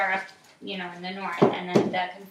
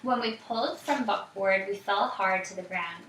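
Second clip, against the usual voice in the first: put-on reading aloud to a child, evenly; story narration. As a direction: tell the story calmly.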